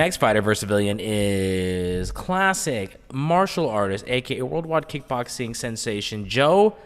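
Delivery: slow announcer build with stretched-out words; announcer intro. Acted. Host introduces the next fighter versus civilian, drawn-out announcer style. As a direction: draw out the fighter's name like a ring announcer.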